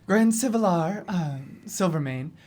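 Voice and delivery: loud, commanding pronouncement; formal arrest proclamation. Acted. Agent holds up badge and arrests Silvermane, commanding. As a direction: declare the arrest with authority. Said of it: "and I say".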